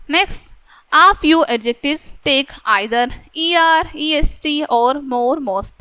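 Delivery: reading the rule out slowly, word by word. Shown as a demonstration. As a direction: dictate the grammar rule to the class. Reads English rule slowly. (धीरे-धीरे नियम पढ़कर सुनाना)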